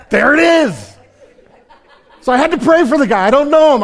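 high, loud, laughing through it. Real, not acted. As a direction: laugh at your own mistake. Laughing at himself.

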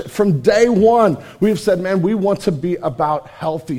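ordinary talk

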